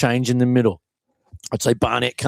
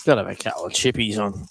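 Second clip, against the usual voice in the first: talking while crunching chips; 3 semitones lower, 5 dB quieter than usual. Real, not acted. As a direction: mouth full of chips. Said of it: "Excuse the crunching in the microphone".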